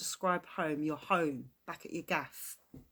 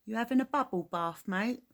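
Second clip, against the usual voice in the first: quick, louder jab at a mate; cheeky Cockney banter; 5 semitones higher, 4 dB louder than usual. Shown as a demonstration. Englishman demoing slang to Americans, quick cheeky banter. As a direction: rattle it off like teasing a friend at the pub. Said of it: "That's a Cockney rhyme for bath".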